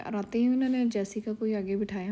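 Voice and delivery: usual speaking voice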